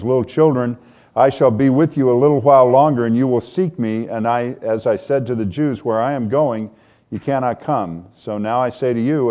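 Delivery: a preacher reading John aloud; scripture reading. Acted. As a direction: read the passage with weight. Reads scripture passage aloud.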